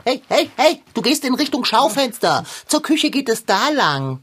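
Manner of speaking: loud call to stop someone wandering off. Acted. Calling after someone walking off. (lautes Hinterherrufen)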